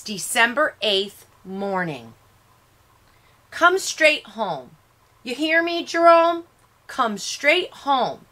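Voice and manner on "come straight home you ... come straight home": 1 mother. A narrator's reading. Mother warning son at breakfast.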